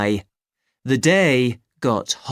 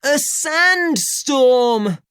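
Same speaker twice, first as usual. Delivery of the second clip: put-on high, slow, alarmed boy; boy's voice; 14 semitones higher, 3 dB louder, slower than usual. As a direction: draw out the word like a scared kid. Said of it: "shouted Ben".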